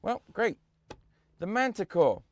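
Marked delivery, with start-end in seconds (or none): 1.4-2.2 shouting at software. Real, not acted. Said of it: "I have to shout at this thing to start work".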